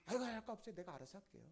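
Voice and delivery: mildly irritated brush-off; annoyed grandchild. Retold or imitated. Grandchild to grandmother asking questions, mildly annoyed. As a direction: wave off a nosy question, mock annoyance. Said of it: "그 짜증 내는 사람".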